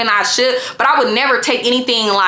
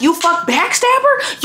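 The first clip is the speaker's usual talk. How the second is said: mock furious accusation; 6 semitones higher, slower than usual. Accusing boyfriend.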